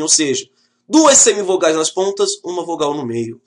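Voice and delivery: ordinary talk, nothing marked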